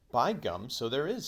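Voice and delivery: loud, high burst of discovery; excited. Acted. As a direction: blurt it out, thrilled.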